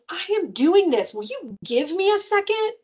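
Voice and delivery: slow, high, exasperated mock yell; imitated child yelling. Child yelling at nagging parent to wait, high and drawn out. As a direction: draw it out high like a fed-up kid. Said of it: "was really yelling at me".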